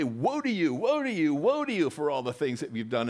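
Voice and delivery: Isaiah crying woe. Retold or imitated. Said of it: "that's what Isaiah would say".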